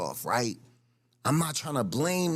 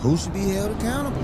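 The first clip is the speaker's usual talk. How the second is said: escalating comedy rant; 3 semitones higher, 6 dB louder, faster than usual. Real, not acted. Angry reply to the interview clip.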